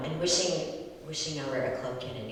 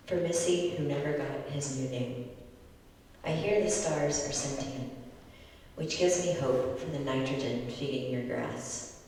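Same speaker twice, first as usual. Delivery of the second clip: measured, deliberate poetry reading; poem reading. Acted. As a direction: read it like an elegy at a reading. Poet reads elegy poem aloud.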